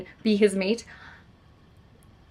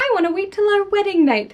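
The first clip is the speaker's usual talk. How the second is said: much higher, louder sugary stalling voice; mock coy bride; 11 semitones higher, 5 dB louder than usual. Heroine stalling her fiancé, mock coy high voice. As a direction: play the coy fiancée putting him off. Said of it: "she could do the whole, like".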